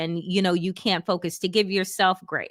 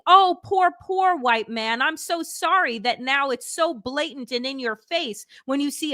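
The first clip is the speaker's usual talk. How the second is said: mock pity; 4 semitones higher than usual. Mocking pity for Trump voters.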